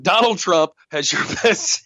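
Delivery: deadpan that collapses into a laugh; real laughter breaking the deadpan; cracking up. Real, not acted. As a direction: hold it straight, then lose it on "best". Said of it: "try to keep my face straight".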